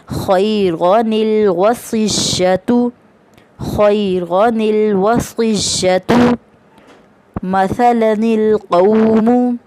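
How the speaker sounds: very slow, drawn-out Quranic recitation. Shown as a demonstration. Teacher reading the first example to students, slow drawn recitation. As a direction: stretch every vowel as in tajweed. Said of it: "next मिसाल देखते हैं".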